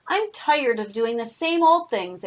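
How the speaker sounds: lightly voiced grumbling complaint; storybook grumble, only mildly put on; narrated grumble. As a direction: grumble it gently for young listeners. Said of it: "it grumbled".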